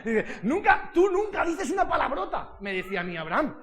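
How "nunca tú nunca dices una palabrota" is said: high, drawn-out mock amazement; amazed teacher. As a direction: play an astonished teacher, stretching the words. Acting out an amazed teacher's remark. (profesora asombrada, voz aguda y alargada)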